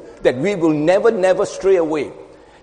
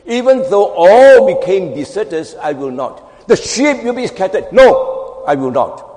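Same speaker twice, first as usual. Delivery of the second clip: egoistic boast; 6 dB louder than usual. Acted. Preacher acting Peter's boast to the congregation, egoistic. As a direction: proclaim it loudly, drop on each refusal. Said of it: "He boasted egoistically".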